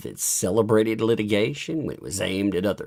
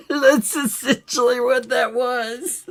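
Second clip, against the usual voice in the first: high, slow, laughing all through; 12 semitones higher, 4 dB louder than usual. Real, not acted. Host cracking up over his own remark, laughing. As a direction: squeeze the words out through real laughter. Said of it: "I got laughing about it".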